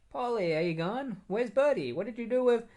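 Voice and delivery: high, sing-song mock calling for a lost pet; imitated high-pitched ex calling out; voicing a worried ex. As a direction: put on a high voice, searching and questioning. Voices the ex hunting her bird.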